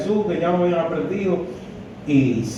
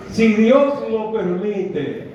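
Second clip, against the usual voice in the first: 1 slow pious phrase; 4 semitones higher, much slower than usual. Shown as a demonstration. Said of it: "no lo decimos por la seguridad".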